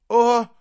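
loud, high shocked gasp. Acted. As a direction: gasp in horror. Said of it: "ахнула Варшева". (испуганный вскрик)

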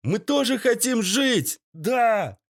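high desperate prisoners crying out; prisoners wailing. A narrator's reading. Captives wail to the gang boss, high and desperate. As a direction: beg for your lives, pitched high. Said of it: "заголосили и остальные пленники".

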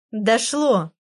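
bright happy exclamation of discovery; fairy realizing something, delighted; joyful. A narrator's reading. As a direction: blurt it out gleefully. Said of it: "радостно сообщила она".

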